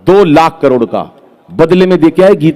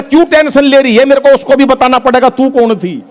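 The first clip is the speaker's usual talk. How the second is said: exasperated retort; 6 semitones higher than usual. Acted. Husband answering wife back.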